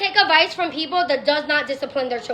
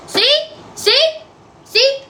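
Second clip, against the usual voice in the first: mock triumphant see; 9 semitones higher, much slower than usual. Mock proud showing off.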